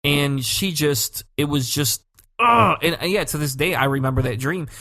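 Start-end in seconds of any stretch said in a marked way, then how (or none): 2.4-2.8 groan of horror. Retold or imitated. Recoiling from the remembered dream.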